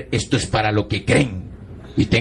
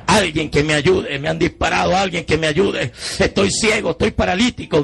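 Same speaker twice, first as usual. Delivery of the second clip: mild acted yell, pitch climbing; higher, urgent reenacted calling; retold cry for help; 5 semitones higher than usual. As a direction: call out for anyone to help. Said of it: "empecé a gritar por la ventanilla".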